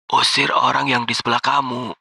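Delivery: high-pitched female caller; woman's voice. Acted. Mystery woman on the phone ordering the guard, high voice. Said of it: "suara wanita di seberang sana".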